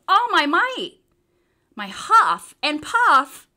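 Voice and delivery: loud, slow straining push. A narrator's reading. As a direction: push out every last breath. Straining to blow, losing breath.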